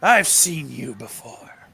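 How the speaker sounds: slow eerie whisper. Acted. Creature hisses at the man.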